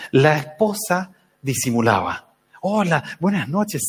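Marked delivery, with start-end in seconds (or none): 2.6-3.8 saludo lento y amoroso imitado; muy amorosa, disimulando. Retold or imitated. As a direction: imita a una mamá que disimula con cariño. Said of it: "muy amorosa". (saludo cariñoso fingido)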